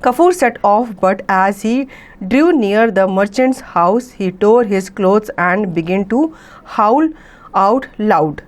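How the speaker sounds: very slow, careful read-aloud of an English story. A narrator's reading. Teacher reading the story to students, very slow and clear. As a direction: read each phrase slowly so the class can follow.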